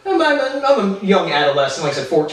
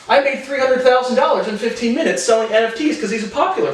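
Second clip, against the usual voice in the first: mocking Mark Cuban quote; 6 semitones higher than usual. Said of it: "let's look at some Mark Cuban quotes".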